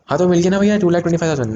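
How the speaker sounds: high-pitched student jumping in; eager student. Acted. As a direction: play a student sure of the answer. Acts the eager student again.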